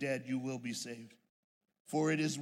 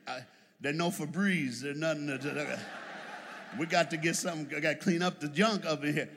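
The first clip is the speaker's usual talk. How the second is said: mock yelling; 6 dB louder than usual. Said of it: "And I would be yelling".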